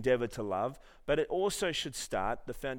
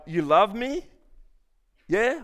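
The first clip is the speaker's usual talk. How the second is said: high, loud mock grandmother asking; hammed-up granny voice, much higher; old nonna voice; 9 semitones higher, 10 dB louder, slower than usual. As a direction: squeak it out like a doubting old nonna. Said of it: "that didn't come out right".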